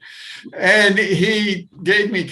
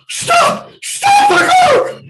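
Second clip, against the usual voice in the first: high, loud yell from nowhere; panicked shout; 11 dB louder, much slower than usual. Retold or imitated. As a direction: scream at the driver to stop. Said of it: "and the voice is saying".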